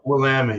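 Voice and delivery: Willamette stressed on LAM; local pronunciation. Real, not acted. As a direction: say Willamette as wuh-LAM-it, confirming it. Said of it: "yeah, around here anyway".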